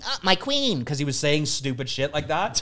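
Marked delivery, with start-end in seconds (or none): 0.0-0.8 mock smitten suitor. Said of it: "I was walking around going".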